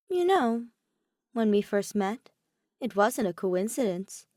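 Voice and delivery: a sly trickster opening up a little; Oma, playful. Acted. Oma's voice, playful confession.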